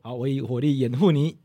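drill reply. Shown as a demonstration. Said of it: "我们可以来一小段就好。".

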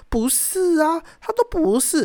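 the friend brushing it off; imitating the friend. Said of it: "他就说". (模仿朋友尖声否认)

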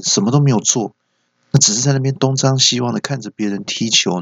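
mildly exasperated parental telling-off; retold scolding. Father nags son after the soccer match, mock scolding. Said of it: "我就念他说".

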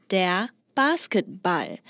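Basketball said the German way, slowly and carefully; 德式发音的 der Basketball; German-style pronunciation. Shown as a demonstration. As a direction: say der Basketball with German vowels, not English. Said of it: "已经是德式发音了".

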